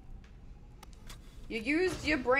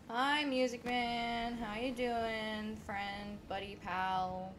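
soft, slow hush; quiet, slow coaxing; hushed sneaking; 3 semitones lower, 7 dB quieter, slower than usual. Real, not acted. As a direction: murmur so the monster stays asleep. Sneaking past sleeping monster.

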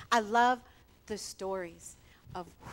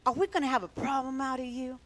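raised-pitch, confrontational question; interrogating; 4 semitones higher, 3 dB louder than usual. Retold or imitated. Pastors confronting a newcomer, mock interrogation. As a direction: imitate an interrogator laying down a challenge. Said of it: "That's how they talked to him".

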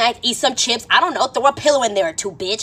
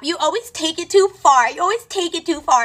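imitated scolding; 6 semitones higher than usual. Girls telling Emily to stop, mock exasperated scolding. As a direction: mimic exasperated girls, pitched up.

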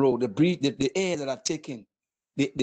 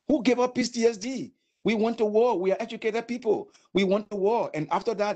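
raised, indignant protest; 5 semitones higher than usual. Real, not acted. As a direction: push back hard, pitch climbing. Angry veteran protest.

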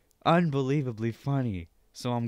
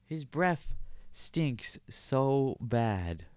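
cooing at the dog; 4 semitones higher, slower than usual. Real, not acted. Baby talk to dog, bad breath.

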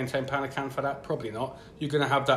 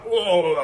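mock shiver; 6 semitones higher, 8 dB louder than usual. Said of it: "you shiver like".

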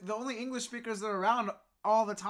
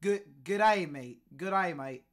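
avoid your usual way of speaking; careful attempt at a different accent; self-conscious, altered delivery of the greeting; trying an unaccustomed voice; 2 semitones lower, 3 dB louder, slower than usual. Shown as a demonstration. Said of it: "not speak how I speak".

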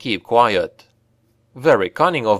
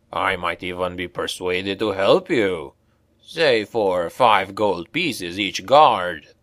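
sly dwarf; 2 semitones lower than usual. A narrator's reading. Dwarf haggling with Brunner over the guards, sly slow voice. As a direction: haggle slyly and slowly.

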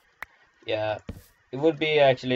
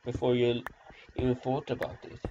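mock-solemn lecture, a little raised; ridiculous speech; 2 semitones higher than usual. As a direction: deliver a silly, grandiose warning. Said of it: "such a ridiculous, uh, way right now".

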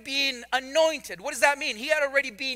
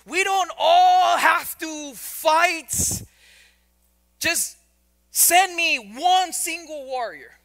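giant's taunt; 3 semitones higher than usual. Retold or imitated. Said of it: "he's saying stuff like".

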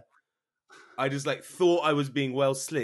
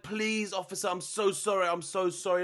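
high-pitched pleading apology; begging; 6 semitones higher than usual. Retold or imitated. Caught smoker apologising to the policeman, begging. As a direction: beg the officer in a high, urgent voice. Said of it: "And I started begging him".

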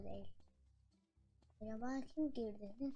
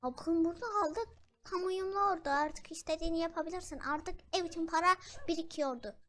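excited; 5 semitones higher, 6 dB louder than usual. Real, not acted. Happy over a purchase.

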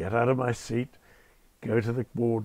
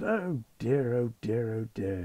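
benign tut-tut; 2 semitones lower, 3 dB quieter than usual. Retold or imitated. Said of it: "got a very benign expression".

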